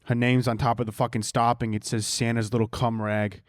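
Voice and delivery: lightly voiced, foul-mouthed Brooklyn Santa; Brooklyn Santa Claus. Comedian greeting a kid as Santa, mock Brooklyn Santa. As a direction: play Santa as a Brooklyn wise guy, only lightly put on. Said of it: "let's pretend that I'm Santa Claus from Brooklyn".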